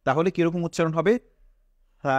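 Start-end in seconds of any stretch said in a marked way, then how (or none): 2.0-2.2 long "সা" with tongue tip at upper teeth edge; lisped "th" start on a stretched "সা". Shown as a demonstration. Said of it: "উপরের দাঁতের যেই আগা রয়েছে সেটার সাথে মিলবে".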